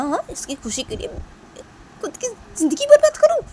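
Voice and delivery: very high, loud angry refusal; furious rant. Acted. Kritika fuming that she won't ruin her life. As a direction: shout out the refusal in a rage.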